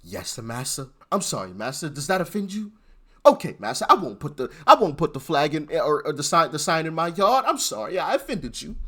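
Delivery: grovel in a mock apology; mocking servile voice. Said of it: "we're still supposed to".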